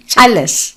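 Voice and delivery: "Charles" as Char-les; two-syllable Charles. Retold or imitated. Comic showing her mother's "Charles". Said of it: "she broke down Charles to two syllables".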